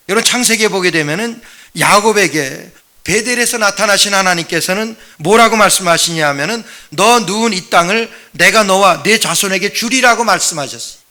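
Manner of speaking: ordinary talk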